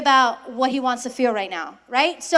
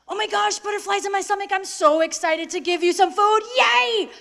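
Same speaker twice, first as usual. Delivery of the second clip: mock excited mom; 5 semitones higher than usual. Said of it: "And she's like".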